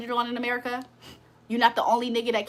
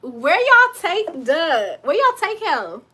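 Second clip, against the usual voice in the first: raised, higher-pitched question; calling out; 4 semitones higher than usual. Real, not acted. Woman demanding answers from guys on a call, calling out. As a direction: call it out high and insistent.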